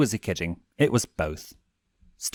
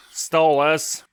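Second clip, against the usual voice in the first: higher, louder plea; urgent call; 8 semitones higher, 6 dB louder than usual. A narrator's reading. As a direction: cut him off anxiously. Blitz tries to intervene.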